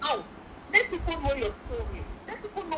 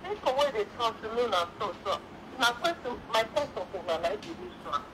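speaking up; 2 semitones lower than usual. Real, not acted. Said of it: "Speak up, please".

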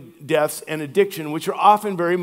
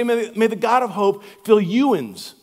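Appalachian dialect. Retold or imitated. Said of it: "it would say".

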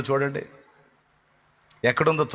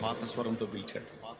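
"పాత స్వరంతో పిలిచాడు." said again much softer, almost breathed; hushed repeat; 2 semitones lower, 15 dB quieter than usual. Shown as a demonstration. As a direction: repeat it in a near whisper. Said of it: "ఆ పాత స్వరంతో పిలిచాడు".

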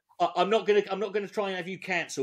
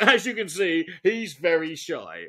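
sincere; 3 dB louder than usual. Shown as a demonstration. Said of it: "you don't say in a sarcastic tone".

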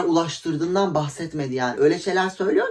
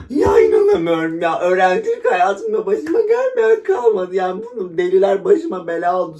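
gasping, louder, higher put-upon complaint; feigned innocent victim; 3 semitones higher, 5 dB louder than usual. Acted. To the police, overplayed innocent victim. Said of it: "Böyle yapardım".

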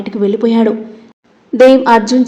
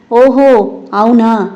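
a doubting "oh, really?"; mildly voiced disbelief; suspicious; much slower than usual. A narrator's reading. Dev doubts Viraj's excuse, suspicious. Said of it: "అనుమానంగా చూస్తూ అడిగాడు".

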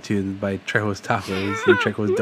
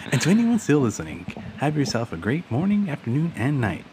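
polite phone voice; sweet customer-service voice; 3 semitones higher, 3 dB quieter than usual. Acted. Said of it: "That's a good voice, man".

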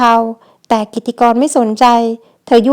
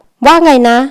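fierce retort; 4 dB louder, slower than usual. Acted. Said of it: "ถามกลับอย่างดุเดือด".

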